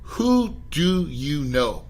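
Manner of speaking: slow, deliberate question set apart; the question to ask. Shown as a demonstration. Mentor teaching a podcast host the one question to ask, slow and deliberate. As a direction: lay out the key question slowly. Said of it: "Only ask".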